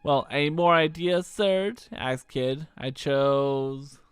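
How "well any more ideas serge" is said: put-on a light, higher Australian-tinged girl voice; cocky young troublemaker; Kid voice. Kid teasing Serge, lightly voiced brash girl. Kid's voice.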